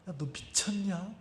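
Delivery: very soft, hushed challenge; inner voice. Retold or imitated. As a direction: say it under your breath like a thought rising inside. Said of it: "속에서 어떤 소리가". (속에서 작게 들려오는 목소리)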